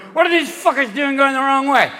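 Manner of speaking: high-pitched mock outrage; indignant drunk driver. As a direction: complain like a baffled drunk motorist. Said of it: "find yourself on the freeway going".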